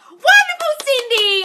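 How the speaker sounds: very high, loud congratulations; real sing-out delight; jubilant cheer. Real, not acted. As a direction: whoop for a follower's news. Cheers a follower's good news.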